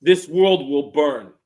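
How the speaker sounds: slow, menacing villain line; a slow mock doom voice; ominous warning. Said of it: "in his ominous voice".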